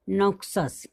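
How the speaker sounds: "नोक्सस" said with ks in the middle; pronunciation demo. Shown as a demonstration. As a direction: read out "नोक्सस" as NOK-sus. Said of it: "next example क्या है".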